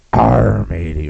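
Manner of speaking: a lightly voiced pirate accent; just a hint of pirate growl. Comic showing how the vampire still sounds, mild pirate accent. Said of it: "she still sounds like it".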